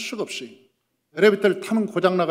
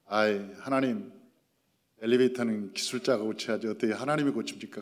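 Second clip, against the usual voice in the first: smiling, slow, softer; 8 semitones lower, 6 dB quieter than usual. Retold or imitated. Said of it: "내가 웃으면서".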